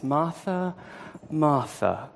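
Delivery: softly calling Martha by name, gently; tender. Retold or imitated. Jesus gently calling stressed Martha by name, tender. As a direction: soothe her by saying her name twice. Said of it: "responds with incredible tenderness".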